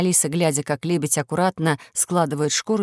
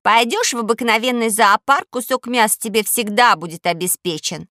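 little princess; 4 semitones higher, 3 dB louder than usual. Acted. Princess retorts.

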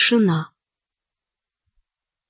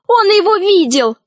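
high, urgent cry; excited high exclamation; 9 semitones higher, 3 dB louder than usual. A narrator's reading. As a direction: call out an accusation, pitched high. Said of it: "закричала Алиса".

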